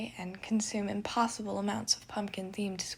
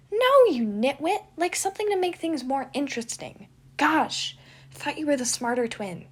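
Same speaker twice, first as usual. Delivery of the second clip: loud, higher mocking twin; exasperated gremlin; 6 semitones higher, 9 dB louder than usual. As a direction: scold him like he's hopeless. Remus mocks his brother.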